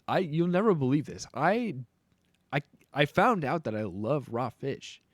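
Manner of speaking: a light hint of a YouTuber intro; mock Markiplier inflection. Streamer teasing viewers about raw fish, mild hype. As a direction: tease the big reveal like a hyped streamer. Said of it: "I'll have, like, that Markiplier inflection".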